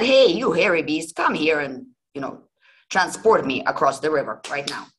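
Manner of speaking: bold yell. Acted. Old man yelling across the river at the giant, loud and bold. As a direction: shout it across a wide river. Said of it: "yelled to the giant".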